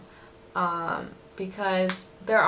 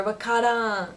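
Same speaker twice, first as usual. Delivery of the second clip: Osaka dialect; 3 semitones higher than usual. Shown as a demonstration.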